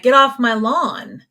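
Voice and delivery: slow, drawn-out mock scolding from the porch; porch old-timer. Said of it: "we sound like we're sitting on our porch".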